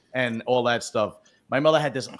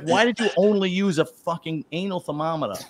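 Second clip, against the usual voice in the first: laughing retort; 4 semitones higher than usual. Retold or imitated. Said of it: "And I was like".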